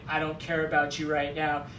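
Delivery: low-pitched, lightly voiced cold hero; understated, low dismissal; mock indifference. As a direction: imitate a man silently shutting her out. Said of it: "he's just sitting there silent".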